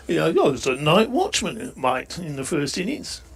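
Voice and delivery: a bad Aussie accent that drifts toward Cockney; hammed-up Aussie accent gone wrong; failed Aussie accent. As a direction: try an Aussie batsman and miss. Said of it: "can't do me Aussie, do I?".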